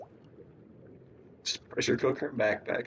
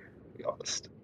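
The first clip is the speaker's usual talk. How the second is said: whisper; 12 dB quieter than usual. Real, not acted. Aside after samurai picture.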